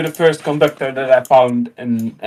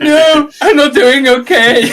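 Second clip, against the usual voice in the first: says it through laughter, louder and slower; laughing; 8 semitones higher, 5 dB louder, slower than usual. Retold or imitated. Lost teen answers the kind lady, laughing louder and slower. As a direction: laugh out the admission, slowly.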